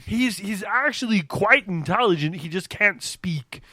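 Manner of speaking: loud goofy cartoon voice; cartoon character voice. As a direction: talk like a cartoon simpleton. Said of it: "a character that Dave created".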